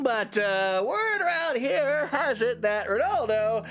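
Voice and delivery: a lightly voiced sly merchant. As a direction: slip him the rumour like a shopkeeper. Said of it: "normal merchant voice".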